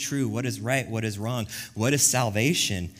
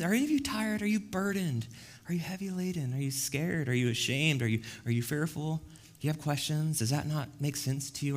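Jesus's tender invitation; 4 semitones higher, 3 dB quieter than usual. Acted. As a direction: gently coax the weary to come. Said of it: "The Lord Jesus Christ teaches us this himself".

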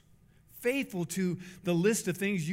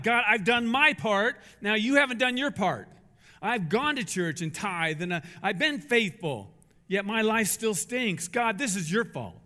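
angry at God; 2 semitones higher, 4 dB louder than usual. Retold or imitated. Religious people blaming God.

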